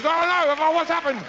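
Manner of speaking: put-on child's bewildered oh no; confused child. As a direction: play a toddler unsure if it hurts. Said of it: "the kid sort of goes".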